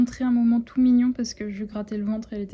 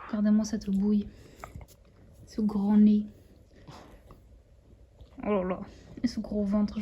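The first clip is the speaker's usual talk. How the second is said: whisper. Real, not acted. Whispering over sleeping puppy.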